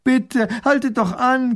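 high, slow, loud plea; high, drawn-out desperate call; gasped plea. A narrator's reading. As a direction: gasp it out while trying to catch up. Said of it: "keucht sie".

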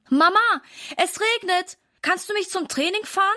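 put-on a boy pleading a little with his mother; boy asks his mom for a lift in the rain, lightly voiced; child asking. A narrator's reading.

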